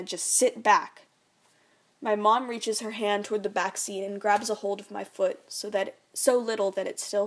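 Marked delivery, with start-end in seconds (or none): 0.0-1.0 louder, slow stern command; stern order. Acted. Dad orders mom to sit back, stern. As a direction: put her in her place.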